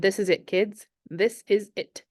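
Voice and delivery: eager, excited announcement; barely able to contain the news; quivering with excitement. Acted. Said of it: "His voice quivered with excitement".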